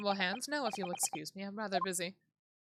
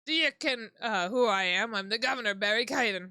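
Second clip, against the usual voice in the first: a lightly done Scottish governor, a bit louder; gruff Scottish accent; 5 dB louder than usual. Acted. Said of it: "What is this accent?".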